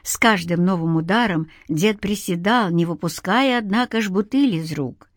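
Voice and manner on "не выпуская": ordinary delivery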